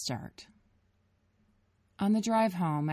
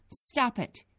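higher tearful plea; crying plea; 8 semitones higher than usual. A narrator's reading. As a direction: beg through tears. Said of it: "Grace cried again".

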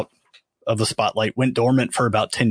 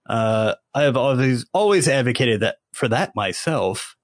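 tripping over words, starstruck; stumbling, repeating words; tongue tied. Real, not acted. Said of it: "I'm tripping over my words".

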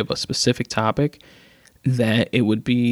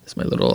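low guttural zombie groan; zombie growl; faster than usual. Pretend. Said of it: "zombie sounds".

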